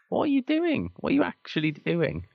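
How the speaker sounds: high-pitched exasperated squeal; exasperated disbelief. Retold or imitated. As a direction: shriek it in total disbelief. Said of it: "and it was just like".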